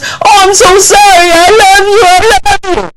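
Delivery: high, pleading fake apology; mock apology. Abuser pleading to his crying wife, high fake apology. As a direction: whine it like a sorry abuser. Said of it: "he goes".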